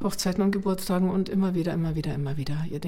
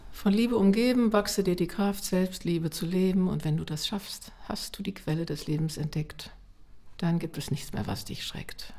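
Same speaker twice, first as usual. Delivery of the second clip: lyrics spoken gently, growing softer; reciting song lyrics; 4 dB quieter than usual. Shown as a demonstration. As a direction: recite the words quietly, trailing down. Recites her own lullaby lyrics.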